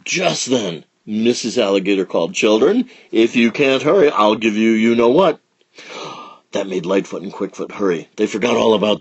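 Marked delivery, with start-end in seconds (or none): 2.3-5.4 mother calling out a threat; loud calling mother. Acted. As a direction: call out, loud and firm.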